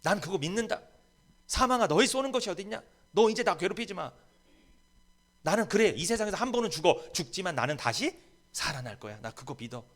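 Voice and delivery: high, loud defiant confession; preacher's fervent shouted creed; bold confession. Shown as a demonstration. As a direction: declare it boldly to death. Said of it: "스스로 얘기하세요. 고백하세요".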